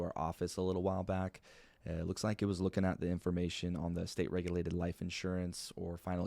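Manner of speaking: calm, even, unhurried read; chill monotone. Shown as a demonstration. Agent phoning a prospect, calm and monotone. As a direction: sound like a bored clerk, not a salesman. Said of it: "I'm pretty monotone".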